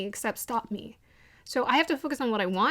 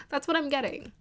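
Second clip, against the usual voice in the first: ordinary talk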